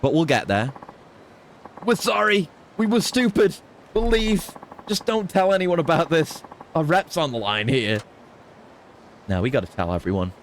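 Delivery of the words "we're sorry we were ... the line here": higher-pitched pleading goon; whiny beaten thug. Acted. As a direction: grovel like a beaten punk. Thugs beg after losing fight.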